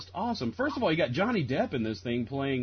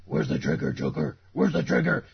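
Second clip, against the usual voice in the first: Batman; 2 semitones higher, 4 dB louder than usual. Retold or imitated. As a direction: demand it like a mock comic-book vigilante. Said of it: "Batman talks like this".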